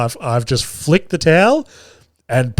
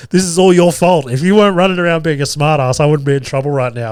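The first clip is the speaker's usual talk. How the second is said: mock blame; 3 semitones higher, 3 dB louder than usual. Dad blaming his son for getting him in trouble, mock angry. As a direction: hurl the blame in a quick burst.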